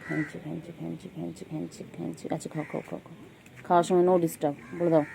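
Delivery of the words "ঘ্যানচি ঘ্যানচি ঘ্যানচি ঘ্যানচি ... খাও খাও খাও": নরম আধো আধো আদুরে ডাক; খুব নিচু গলায় আদর করে ডাকো. Real, not acted. Soft baby talk to cat. (বিড়ালকে আধো আধো স্বরে নরম আদর)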